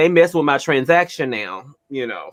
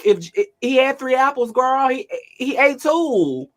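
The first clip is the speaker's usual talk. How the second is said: hammed-up shouting math lesson; mock-loud tutor at the niece; imitating her own loud tutoring; 10 semitones higher than usual. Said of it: "I'm like".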